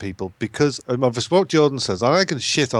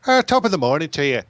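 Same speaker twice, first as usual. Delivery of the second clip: Irish impression; 4 semitones higher than usual. Shown as a demonstration. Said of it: "I can do a quick impersonation".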